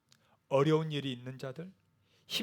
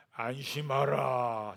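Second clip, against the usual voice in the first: drawn-out, very slow comfort; slow modeled line to repeat to a neighbour; slow demo; much slower than usual. Shown as a demonstration. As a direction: stretch each syllable slowly for your neighbour. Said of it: "이렇게 얘기해 주세요".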